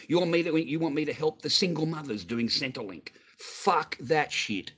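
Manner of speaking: angry outburst. Real, not acted. Refusing to fund Centrelink, angrily yelling at Mel. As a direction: spit it out in real disgust. Ranting at Mel over welfare.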